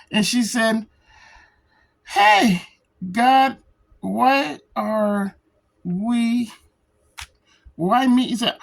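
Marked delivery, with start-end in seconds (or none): 2.0-8.3 mock outcry. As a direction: throw the question up at the sky. Character cries out to God.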